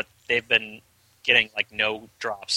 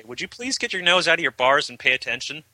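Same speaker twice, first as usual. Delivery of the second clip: exasperated scolding; 4 semitones higher than usual. Retold or imitated. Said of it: "kick them and say".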